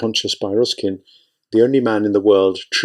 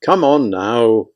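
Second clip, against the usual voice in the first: hoarse; much slower than usual. Acted. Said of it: "Byoroskin's voice was hoarse".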